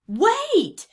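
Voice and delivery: high, loud call after the crew; crying out. A narrator's reading. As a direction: yell it to halt the fleeing men. Captain calling after departing boat.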